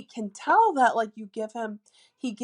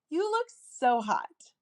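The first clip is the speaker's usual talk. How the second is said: playful flirty tone; 6 semitones higher, slower than usual. Shown as a demonstration. To a guy at singles group, slow playful flirt. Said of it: "by using your intonation of your voice".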